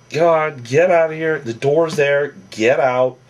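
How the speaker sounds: retold angry telling-off. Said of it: "Vinny's like".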